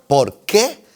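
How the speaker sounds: "por qué" split in two, stress on QUÉ; final accent, question form. Shown as a demonstration. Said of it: "Y acento al final es pregunta".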